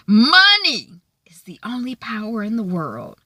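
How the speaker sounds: an intense whispered vow. Acted. Charlotte telling her mother about money, whispered. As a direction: breathe it out as a secret truth.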